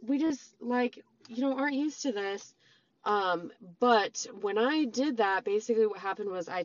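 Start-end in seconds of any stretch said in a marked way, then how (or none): 0.0-2.5 higher-pitched imitation of an excuse; put-on higher voice for quoted excuses; mock excuse-making. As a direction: lightly parody someone offering excuses, pitched up. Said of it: "it was still framed as, like".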